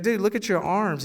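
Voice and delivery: exasperated friend pushing back; insistent repeat. Retold or imitated. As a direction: hit it harder the second time.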